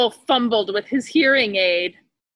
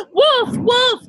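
much higher, louder cry; boy yelling; 14 semitones higher, 5 dB louder than usual. A narrator's reading. Boy yelling for the villagers, high and loud. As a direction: yell for help at full pitch. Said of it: "the boy yelled out again".

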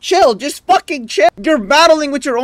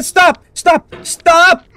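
exasperated stop; 5 semitones higher, much slower than usual. Real, not acted. Yelling at the game.

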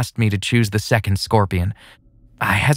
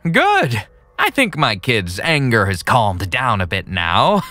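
a hint of a pleased creep; lightly gleeful villain; happy villain. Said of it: "he said happily".

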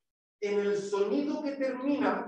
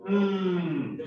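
humming m; 2 semitones lower than usual. Shown as a demonstration. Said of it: "¿Vibra algo de su humanidad".

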